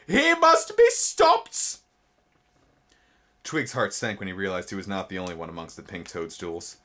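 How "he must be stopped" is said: very high, very slow, loud insect cry; insect alarm. A narrator's reading. Spindlebug chasing Twig, high slow cry.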